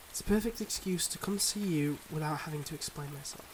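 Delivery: measured, heartfelt confession with long pauses; earnest secret-life lover. Acted. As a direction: confess gently but seriously, pausing between thoughts. Acts a secret-life lover's farewell.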